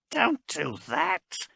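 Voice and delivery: high, slow urgent hiss; hissed warning. A narrator's reading. Marast hissing a frightened warning to Haas. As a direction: warn her sharply under breath. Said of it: "hissed Marast".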